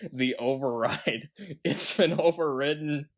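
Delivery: quoted line broken by laughter; chuckling through a silly movie line; laughing quote. Retold or imitated. Host quoting the override line, laughing. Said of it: "one guy says".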